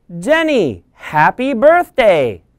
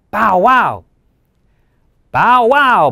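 louder playful woof; barking dog; 4 semitones higher, 4 dB louder than usual. Acted. Brown the dog barking back at Jenny, playfully loud. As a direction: bark it like a happy puppy. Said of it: "barks Brown".

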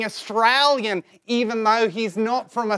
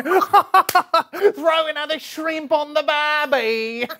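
put-on Australian accent; 2 semitones higher than usual. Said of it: "I'm speaking Australian".

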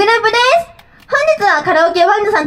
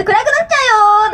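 imitated chime announcement; 4 semitones higher than usual. 夕方のチャイムが子供に暗くなると知らせる、高めの呼びかけ声. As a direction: call the children home like the chime. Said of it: "のチャイムかもしれないですね".

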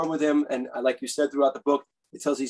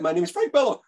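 put-on a bit higher boyish voice; lightly raised young boy pitch; high kid voice; 3 semitones higher than usual. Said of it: "with my really high pre-puberty voice".

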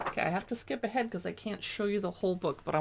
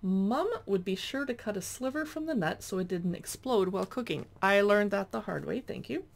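reading aloud. Acted. Reads cookbook introduction aloud.

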